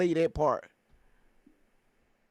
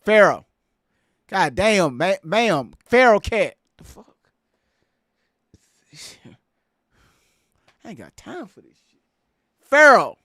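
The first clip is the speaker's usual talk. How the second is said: calling out; 7 dB louder than usual. Real, not acted. Calling the guest again.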